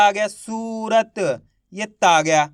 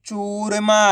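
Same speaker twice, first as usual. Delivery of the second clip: चूरमा run together without pauses; blended word; much slower than usual. Shown as a demonstration. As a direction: say चूरमा joined up as one word. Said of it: "तो मिलके बन जाएगा". (चूरमा को मिलाकर एक शब्द में)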